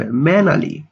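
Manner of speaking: mannerly said as "MEN-a-li", no R; R left silent. Shown as a demonstration. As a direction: drop the R in mannerly: "menali". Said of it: "এখানে আর এর উচ্চারণটা হবে না". (mannerly-তে র বাদ, "ম্যানালি")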